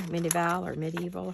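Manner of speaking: "Medieval" said two ways, the second copying another crafter's way; two pronunciations. Shown as a demonstration. Crafter unsure how a friend pronounces "Medieval", trying both. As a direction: try "Medieval" her way after your own. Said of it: "however she says it".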